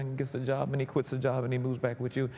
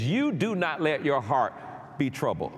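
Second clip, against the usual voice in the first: "You" picked out, phrase dropping at the end; stress on YOU. Retold or imitated. Preacher quoting the command to the congregation, stress on "You". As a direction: lean on "You", then let the rest fall. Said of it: "implied, uh, word here is you".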